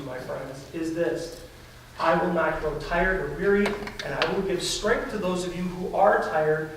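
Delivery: God comforting his weary people, softly reassuring; gentle reassurance. Acted. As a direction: reassure the tired gently, no scolding. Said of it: "The tone that God uses here".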